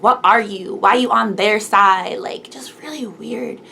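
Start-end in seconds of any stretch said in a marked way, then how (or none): 0.0-2.2 loud, confronting question; accusing schoolgirls. Retold or imitated. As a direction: demand it like a hostile classmate. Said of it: "being like".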